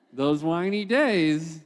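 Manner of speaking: slowed, drawn-out repeat for emphasis; slow emphatic repeat. Shown as a demonstration. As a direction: stretch out those whiny days slowly.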